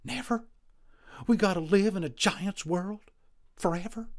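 high, loud cowboy lament; despairing Boone. A narrator's reading. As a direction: wail about living among giants. Boone despairs, narrator voices him.

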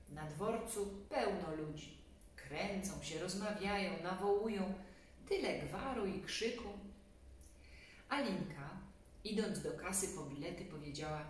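ordinary delivery

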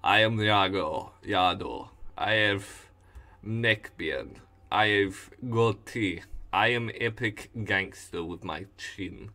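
put-on vaguely Russian accent; lightly put-on Russian gangster boast; a hint of a Russian accent; Yado. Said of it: "I vaguely make it Russian".

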